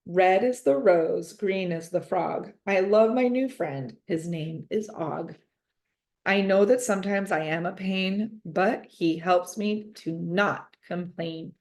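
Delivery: slow, sing-song poem reading; poem recitation. A narrator's reading. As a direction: recite it like a child's valentine. Reading a child's valentine poem.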